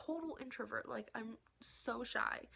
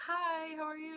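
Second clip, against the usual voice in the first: high, loud fan hello; re-enacted nervous greeting; 7 semitones higher, 6 dB louder than usual. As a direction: act out greeting your idol, short of nerve. Nervous fan greeting idol, acted.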